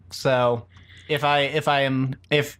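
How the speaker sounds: slurring after wisdom teeth; slurred speech. Real, not acted. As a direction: sore mouth, slightly slurred words. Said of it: "if I am slurring and difficult to understand".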